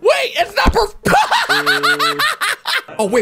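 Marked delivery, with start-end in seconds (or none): 0.0-1.0 high shout collapsing into laughter; breaking into laughter. Real, not acted. Viewer realizing it is not perfume, breaking up laughing. 1.0-2.9 real long, high-pitched laughter; high laughing fit. Real, not acted. Viewer reacting to the perfume gag, high laughter.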